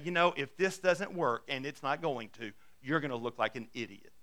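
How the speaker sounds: low, hushed voice of doubt, not a true whisper; mock whispered taunt. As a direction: drop low and quiet, like Satan at someone's ear. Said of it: "whisper in your ear".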